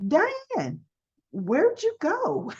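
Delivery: high, drawn-out call; calling Diane. Retold or imitated. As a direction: call her back from a daydream. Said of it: "you hear this".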